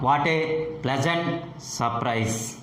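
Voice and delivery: "surprise" stepping down at the end; falling tone. Shown as a demonstration. Teacher modelling exclamatory sentences, falling tone. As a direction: keep "pleasant" up, drop "surprise". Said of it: "The falling tone is used with".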